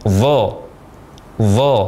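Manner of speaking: "Dha" as a heavy voiced th, tongue hollowed; emphatic, thick "Dha", held slightly; correct thick dha. Shown as a demonstration. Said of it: "bagian tengah dari lidah kita membentuk permukaan cekung".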